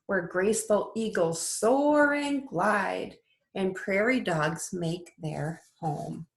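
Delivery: lilting storybook read-aloud; sing-song picture book voice; reading to children. Acted. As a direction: read it like bedtime story time for little ones. Teacher reads picture book aloud.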